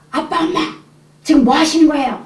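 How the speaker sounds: high, pleading cry at parents; teenage son bursting out of his room, shouting high; son's shout. Retold or imitated. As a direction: call out to the parents, upset. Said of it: "큰 소리가 막 나갔는데".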